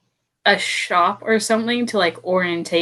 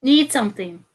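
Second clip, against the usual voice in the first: Kenku mimicry; 3 semitones higher than usual. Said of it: "only copy noises that you hear".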